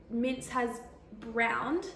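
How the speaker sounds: slow, careful correction; slow corrected take. Shown as a demonstration. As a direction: say browned slowly with a rise. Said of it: "uh, what?".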